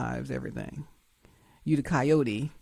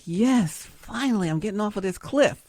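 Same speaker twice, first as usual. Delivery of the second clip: mock excitement; 3 semitones higher than usual. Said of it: "Cliffhanger's so excited".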